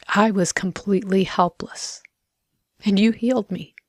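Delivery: measured, reverent prayer with pauses; prayer of gratitude. Real, not acted. Thanking the Lord for healing me, reverent prayer. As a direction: give thanks phrase by phrase, unhurried.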